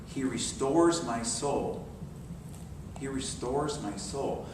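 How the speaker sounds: slow, soft and steady; slow meditative recitation. Acted. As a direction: savour each word slowly. Meditative line repeated.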